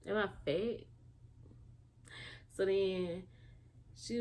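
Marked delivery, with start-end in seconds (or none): 0.1-0.9 exasperated disbelief. Retold or imitated. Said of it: "And I was like".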